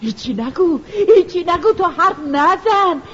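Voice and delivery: scolding shriek. Acted. Mother shrieks at her daughter to stop talking. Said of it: "مادر با جیغ و داد گفت".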